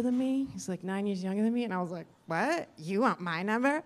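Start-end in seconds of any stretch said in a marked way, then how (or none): 2.3-3.8 a touch of scornful disbelief; mock snooty disbelief. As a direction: act mildly insulted he asked. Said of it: "Just extra C-wordy with him".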